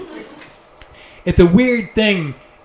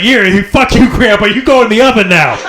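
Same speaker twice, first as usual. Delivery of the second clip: mock angry; 2 semitones higher, 4 dB louder than usual. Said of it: "It's like".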